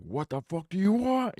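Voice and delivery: high, exasperated outburst at the bird. Retold or imitated. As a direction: throw up your hands in disbelief. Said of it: "and I'm just like".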